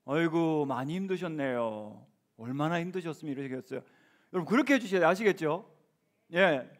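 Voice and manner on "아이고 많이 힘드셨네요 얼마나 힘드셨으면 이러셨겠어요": right comfort. Shown as a demonstration. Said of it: "뭐라고 해야 돼요?".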